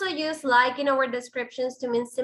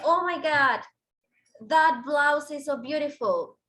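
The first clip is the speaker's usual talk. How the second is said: mock gushing; 3 semitones higher, 3 dB louder than usual. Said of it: "Y alguien te dice".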